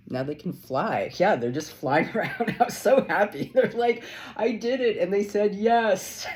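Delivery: high, loud and bubbling over; squealing with delight at the reading; excited. Real, not acted. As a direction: gush with joy, voice up and loud. Excited tarot reading, rising.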